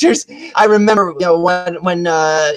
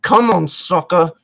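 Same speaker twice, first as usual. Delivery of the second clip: cocky challenge. Retold or imitated. Woman invites him to fight, cocky challenge. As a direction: savor the challenge, taking it slowly. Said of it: "she's like".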